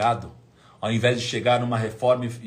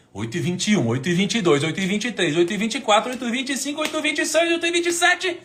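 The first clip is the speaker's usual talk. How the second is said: building countdown; 11 semitones higher, 6 dB louder than usual. Retold or imitated. Waiting for the first sale, rising excited count. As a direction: count climbing higher and louder each minute.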